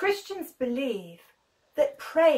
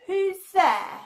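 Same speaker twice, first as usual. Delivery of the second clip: higher, wary call; nervous Rhoda; 8 semitones higher, 4 dB louder than usual. Acted. Rhoda calls at door.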